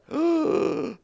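loud, high mock gasp. Girls see their sick dad appear, mock gasp. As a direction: gasp as if astonished, playacting. Daughters' shocked reaction acted out.

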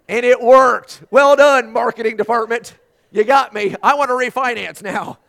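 loud, high, hammed-up outburst; mock exasperated shout. Tearful viewer salutes the marketing department, mock exasperated shout. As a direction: shout grudging congratulations, playfully overwrought.

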